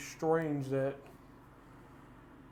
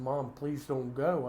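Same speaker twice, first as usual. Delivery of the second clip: slow pleading; slower than usual. Retold or imitated. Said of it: "and I'm crying".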